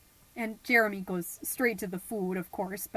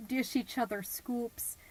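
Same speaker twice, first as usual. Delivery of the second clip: whisper; 5 dB quieter than usual. Acted. Tender hushed moment.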